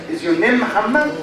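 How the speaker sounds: brisk question, "Muhammad" rising at the end; yes-or-no question tune. Shown as a demonstration. Teacher demonstrating yes-or-no question, quick rising tune. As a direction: ask quickly, lifting "Muhammad". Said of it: "This is a low pattern".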